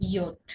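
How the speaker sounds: "ইয়ট" as YOT, low and falling; name the letter as "ইয়ট" with a y sound; German letter J. Shown as a demonstration. Teacher naming J for learners, German letter pronunciation. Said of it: "আর জে হয়ে যাবে".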